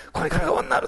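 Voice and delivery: おんなる in Nagasaki dialect, held ん. Retold or imitated. Pastor quotes the woman's realisation in Nagasaki dialect, mild. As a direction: swap in the dialect word おんなる. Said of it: "その人は長崎弁なんでね".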